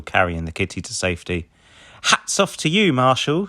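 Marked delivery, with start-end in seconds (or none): 2.0-3.5 Ryder voice. A narrator's reading. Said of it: "says Ryder".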